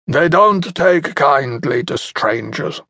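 put-on scowling old hunter. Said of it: "his wrinkled face curling into a scowl".

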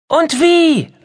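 very high, loud, delighted squeal; joyful. Acted. Mia answering grandma, overjoyed. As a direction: burst with joy. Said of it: "rief Mia voller Freude".

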